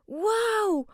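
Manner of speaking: awed whispered wow. Acted. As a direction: breathe out amazement. Finds the secret recipe.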